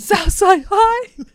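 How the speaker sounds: high, loud, slow drawn-out threat; dramatic villain. Retold or imitated. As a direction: stretch it out like a cartoon villain. Imitating mayor's threat.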